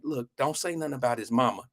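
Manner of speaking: gentle, low-key warning; nicely. Retold or imitated. Friend nicely warning a girl off his buddy's mother, soft and restrained. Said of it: "I said it nicely to her".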